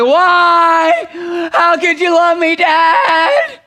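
put-on a struggling child pleading with her father; crying daughter asking her dad why.

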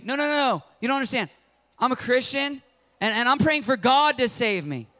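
high, insistent refusal; stubborn refusal. Retold or imitated. Drowning man refuses the rescuers, high insistent voice. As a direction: wave them off stubbornly.

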